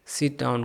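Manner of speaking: sit down with the t swallowed; teacher shows the linked form; dropped t. Shown as a demonstration. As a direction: run sit into down without the t. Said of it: "आप बोलेंगे sit down".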